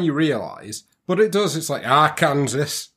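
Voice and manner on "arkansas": put-on Yorkshire accent. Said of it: "talking a Yorkshire accent".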